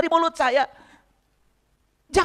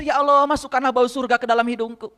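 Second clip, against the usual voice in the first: prayer; 5 semitones lower than usual. Shown as a demonstration. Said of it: "setiap wudhu, saya tarik air".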